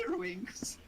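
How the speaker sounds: breathy whisper. Real, not acted. Whispered aside.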